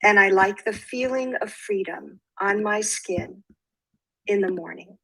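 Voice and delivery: measured poetry reading with pauses between lines; poem reading. Acted. Poet reads her own poem to listeners, measured recital. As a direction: read it as verse, giving each phrase room.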